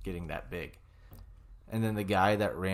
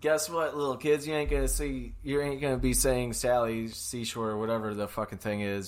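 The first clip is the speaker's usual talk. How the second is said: mock lecture; 4 semitones higher, 5 dB louder than usual. Loud mock lecture to kids.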